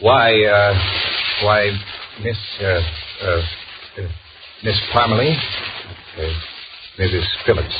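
flustered stammer. Acted. John caught by his fiancée, flustered stammer. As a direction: stumble over the names.

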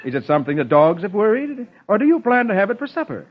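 mocking, rising quick and high; teasing laugh. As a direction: tease him about the scrawny bird. Alita mocking Val's ragged bird.

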